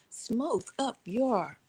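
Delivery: slow, drawn-out playful delivery; clowning around. Pretend. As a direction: stretch the words out for comic effect. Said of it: "why I'm talking like that".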